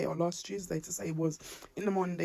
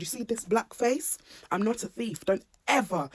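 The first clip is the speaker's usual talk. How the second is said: retold shouting; 4 semitones higher, 4 dB louder than usual. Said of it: "that's all I kept shouting to him".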